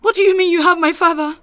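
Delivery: alarmed. Acted. Kidnapper calls about her father.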